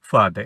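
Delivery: "ফাদার" ending on an open "da"; British silent R. Shown as a demonstration. Teacher follows British rule, no r at the end. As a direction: drop the final r of "ফাদার". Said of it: "আমরা ব্রিটিশটা follow করি".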